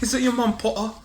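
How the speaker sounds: high mocking taunt through a laugh. Shown as a demonstration. Friend demonstrating the taunt, high and laughing. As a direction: pitch it up and laugh the line. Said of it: "You gotta say it with the W".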